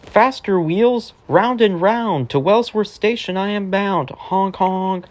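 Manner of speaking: a hint of an eager bus on his route; lightly voiced bus. Bus hurrying to Wellsworth Station, lightly voiced.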